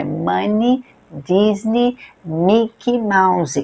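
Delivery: Money, Disney, Mickey Mouse each ending in a clear ee; final i sound. Shown as a demonstration. Teacher showing the ee ending to students. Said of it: "pronunciar como se fosse um I".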